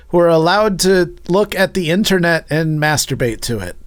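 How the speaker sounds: mock sponsor read, half laughing. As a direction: read it like a cheesy sponsor spot. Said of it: "this is my ad read".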